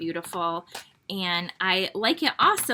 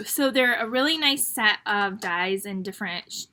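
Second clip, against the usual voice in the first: talking through the hiccups; words cut off by a hiccup. Real, not acted. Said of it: "I got the hiccups".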